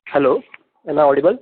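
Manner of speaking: very loud, questioning call; checking audibility. Real, not acted. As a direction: call out loudly down a bad line. Checking bad line after not heard.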